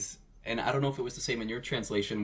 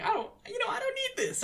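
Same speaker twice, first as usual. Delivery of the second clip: dismissive rich guy; faster than usual. Retold or imitated. Voicing D K dismissively.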